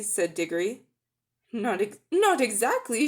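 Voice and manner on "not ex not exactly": louder insistent outburst; mild shout. Acted. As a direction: cut in loudly. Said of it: "shouted Polly".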